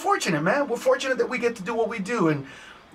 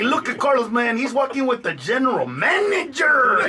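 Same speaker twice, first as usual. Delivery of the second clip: proud mock shout; 5 semitones higher than usual. Workers boasting about Carlos, in a laughing mock shout. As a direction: call it out with pride, laughing.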